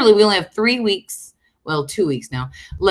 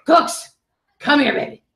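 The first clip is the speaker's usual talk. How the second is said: high coaxing pet call; calling the dog; 7 semitones higher than usual. Real, not acted. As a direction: lift the voice up to coax the dog. Calling her dog again.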